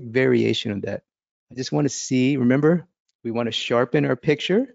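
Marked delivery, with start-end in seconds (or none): none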